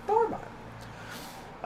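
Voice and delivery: slow, whispered aside; hushed reassurance. Pretend. Streamer brushing off puzzled players, whispered reassurance. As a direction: drop to a soft whisper, taking your time. Soft repeat of his reassurance.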